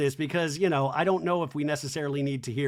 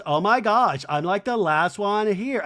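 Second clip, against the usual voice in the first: mimicked exclamation; 4 semitones higher, 5 dB louder than usual. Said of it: "And she goes".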